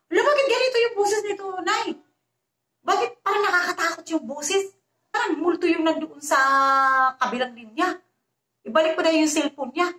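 high, fast, panicky plea to her mother; rattled and scared, rushing the words out; frightened daughter. Retold or imitated. Scared daughter tells her mother about the ghostly voice, panicky. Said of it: "natakot siya".

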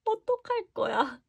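high, slow, soft coo. Real, not acted. Fan cooing softly over the sweater card. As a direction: melt over it.

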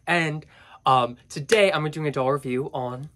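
nasal voice from a cold; stuffy nose. Real, not acted. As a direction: talk through a blocked nose. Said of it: "I apologize for my nasally voice".

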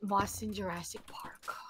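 hushed dramatic whisper. Pretend. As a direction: whisper it like a movie tagline. Whispered joke aside.

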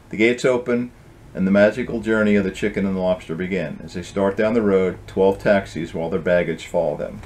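gentle storybook reading voice; story narration. A narrator's reading. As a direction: read it like a bedtime tale. Author reads his book aloud.

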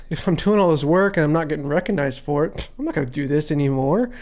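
fast, lightly acted grumble; mildly rebellious. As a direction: grumble quickly in mock protest. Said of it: "get a little rebellious".

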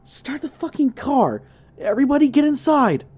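high, urgent shout, fast at the end. Retold or imitated. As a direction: bark orders to get everyone out now. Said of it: "shouted to his friend".

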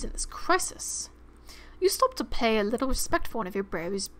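lightly put-on British narration; playful, imperfect British accent; mock British accent. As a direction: read it in an amateur British accent. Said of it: "Why am I British?".

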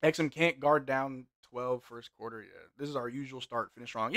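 ordinary talk, nothing marked

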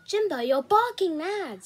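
scolding a reckless friend; exasperated protest. Acted. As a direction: protest in disbelief, stretching the words. Becky argues against going on.

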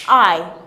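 "I" gliding from an ah sound into an ee sound; diphthong I. Shown as a demonstration. Teacher showing students the diphthong, "I" gliding ah to ee. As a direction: say "I" as one unbroken glide, ah to ee. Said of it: "starting with the A sound and ending with the E sound".

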